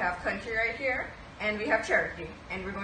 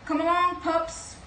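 cheery call; 7 semitones higher, 5 dB louder, slower than usual. Acted. Pongo calls puppies.

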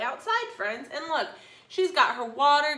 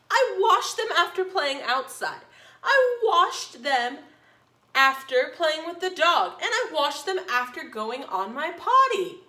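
cartoon princess; 3 semitones higher, 5 dB louder than usual. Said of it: "said the little princess".

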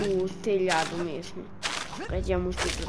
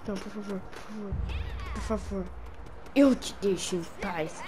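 pleading; 4 dB quieter, faster than usual. Acted. Implora ao vilão.

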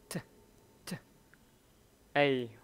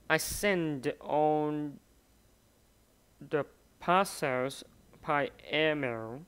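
slow, careful reading word by word; slow dictation. Shown as a demonstration. Teacher slowing down so students catch each word, slow and careful. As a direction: spell it out slowly for learners. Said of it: "mình nghe chậm một xíu ha".

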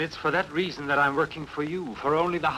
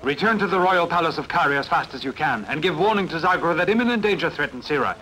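louder, pressing orders; urgent raised voice sending him off; urgent command; 6 dB louder than usual. Acted. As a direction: drive him to hurry. Urgent order to ride fast.

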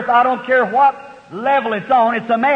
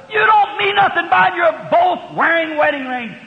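sharp retort; 6 semitones higher, 3 dB louder than usual. Retold or imitated. Preacher retorts to the excuse.

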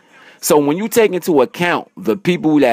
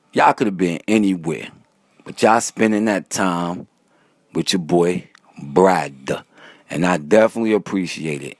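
sincere sign-off; 5 semitones lower than usual. Real, not acted. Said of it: "I like to end my videos by saying this".

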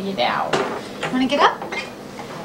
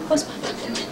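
whisper; 5 dB quieter than usual. Real, not acted. Whispered repeat.

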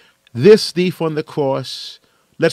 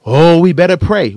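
worried saint; 2 semitones higher, 9 dB louder than usual. Retold or imitated. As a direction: mimic a fretful believer suddenly scared. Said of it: "you can hear it in their voice".

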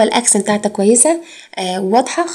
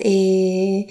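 drawn-out "ehhh" hesitation; annoying "eh" filler; 4 dB quieter, much slower than usual. Shown as a demonstration. Teacher contrasts the irritating filler, a dragged-out eh. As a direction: drag the vowel out as a stall. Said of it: "زي الحركه بتاعت".

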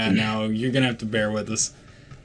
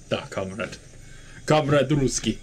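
mock Russian; 3 dB quieter than usual. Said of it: "The Let's Russia".

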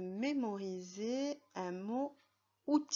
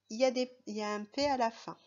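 fast aside; 2 semitones higher, 5 dB louder, much faster than usual. Shown as a demonstration. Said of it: "teacher rushes on".

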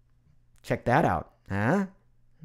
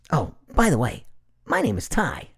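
Tai. Acted. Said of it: "Doing the Tai voice".

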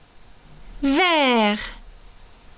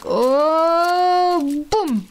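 surprised crash; 4 semitones higher than usual. Acted. Crash into the crab.

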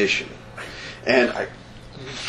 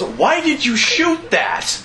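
baffled quote; 11 semitones higher, slower than usual. Retold or imitated. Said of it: "it was pretty much one of those".

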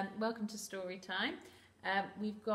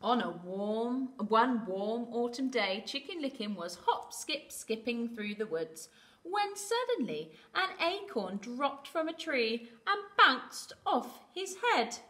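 put-on animated storytelling for children, building to the bump; story narration; 3 semitones higher, 7 dB louder than usual. A narrator's reading. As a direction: read to little ones, lifting the action words.

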